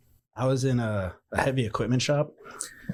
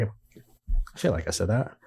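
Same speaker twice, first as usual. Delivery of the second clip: deadpan; slower than usual. Retold or imitated. Deadpan retold reply.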